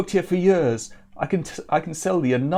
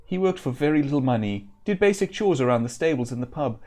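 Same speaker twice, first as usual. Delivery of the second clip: frightened; 3 semitones higher than usual. Acted. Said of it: "His eyes are wild with fright".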